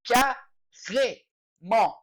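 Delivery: Carrément stretched very slowly, throaty R, nasal end; slow drawn carrément. Shown as a demonstration. Teacher modelling for beginners: very slow carrément. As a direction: draw out Carrément syllable by syllable. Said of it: "Forçado".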